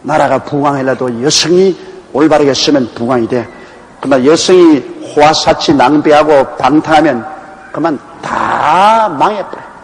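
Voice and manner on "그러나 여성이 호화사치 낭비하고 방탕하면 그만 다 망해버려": ordinary talk, nothing marked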